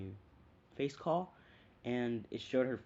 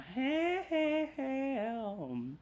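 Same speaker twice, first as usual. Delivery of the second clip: much higher, louder nervous calls; squeaky calling; 5 dB louder, much slower than usual. Retold or imitated. Naruto calling out before the fight, squeaky. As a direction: yelp it out in a put-on voice. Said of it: "Naruto starts going".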